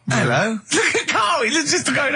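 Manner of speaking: high, hammed-up hello; silly high catchphrase greeting; comedy greeter character. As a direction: call out a high, exaggerated hello. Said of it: "It's my little Chinese neighbour".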